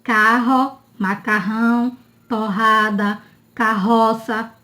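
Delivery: CARRO, TORRADA with an H-like R; strong double R. Shown as a demonstration. Teacher reviewing double R examples, strong sound. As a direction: say the rr in "macarrão" as a breathy H. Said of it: "tem um som forte".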